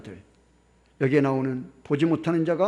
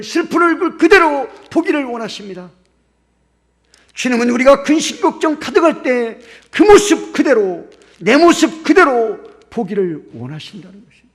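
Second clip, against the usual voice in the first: fervent preaching; 7 semitones higher, 12 dB louder than usual. Acted. Preacher stirring congregation.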